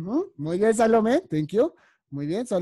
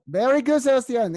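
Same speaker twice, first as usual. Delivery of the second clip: higher, louder cheer; delighted praise; 5 semitones higher, 4 dB louder than usual. Real, not acted. Teacher praises Sebastián's answer, delighted and louder. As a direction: burst out with praise for the pupil.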